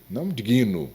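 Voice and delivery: "digno" said wrongly as di-GUI-no; "digno" in three syllables: di-GUI-no; mispronounced digno with added vowel. Shown as a demonstration. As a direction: put an extra stressed i inside "digno". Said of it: "tem que dar força no i".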